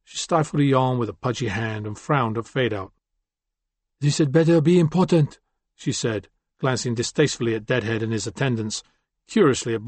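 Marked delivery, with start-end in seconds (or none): 4.0-5.4 higher, cross, impatient woman; irritated woman voice. Acted. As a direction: snap it out, annoyed at being woken. Suma, irritated, just woken.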